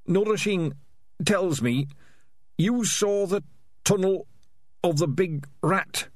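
put-on high, slow old rat voice. A narrator's reading. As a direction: croak it like a frail old rat. Old rat leader Ham and Pork speaks.

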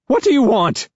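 high, shaky, panicked voice; shaky high-pitched man. A narrator's reading. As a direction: squeak it out, terrified. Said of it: "The voice on the other end of the line is shaky and high-pitched".

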